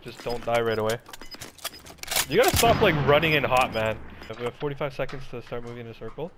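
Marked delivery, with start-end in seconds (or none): 2.3-4.0 scolding. Real, not acted. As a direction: tell him off sharply. Scolding teammate's rushing.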